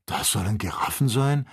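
mild narrated astonishment at tiny giraffes; astonished. A narrator's reading. Joe staring down at the giraffes from the balloon, astonished. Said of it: "rief Joe erstaunt".

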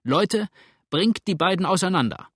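high, loud urgent command; shouted order. A narrator's reading. Man hurrying over to the crowd, high urgent shout.

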